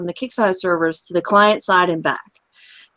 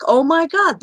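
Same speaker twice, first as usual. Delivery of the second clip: Yenta voice; 6 semitones higher than usual. Acted. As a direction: wail it like a New York Jewish yenta. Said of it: "I did my, uh, Yenta voice there".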